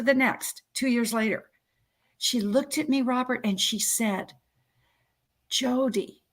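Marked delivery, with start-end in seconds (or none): 5.5-6.2 imitated Norwegian-accented name. Dying mother addressing her daughter, light Norwegian accent. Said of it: "in this Norwegian accent".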